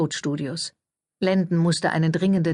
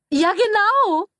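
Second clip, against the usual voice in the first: quick high cover-up; lightly hurried high publicist; hurried gush; 5 dB louder, slower than usual. A narrator's reading. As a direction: rush to smooth it over, still gushing. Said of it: "sagte Flack eilig".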